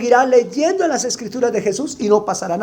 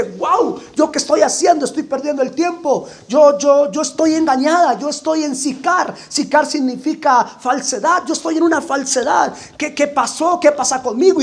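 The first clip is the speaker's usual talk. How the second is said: higher-pitched, shaken self-questioning; alarmed realization; 4 semitones higher than usual. Acted. Samaritan woman seeing her own deception, higher alarmed voice. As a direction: realize you've been fooled, voice raised high. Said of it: "reacciona y dice".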